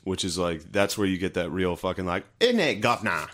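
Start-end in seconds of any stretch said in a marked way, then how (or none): 2.4-3.3 lightly put-on Brummie accent; Birmingham accent. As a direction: slip into a quick Birmingham twang. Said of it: "Like, that accent".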